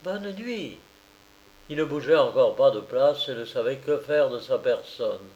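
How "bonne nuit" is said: much softer, mocking "Bonne nuit"; low, mocking goodnight. A narrator's reading. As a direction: whisper it back with a sneer. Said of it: "à voix basse, d'un ton railleur".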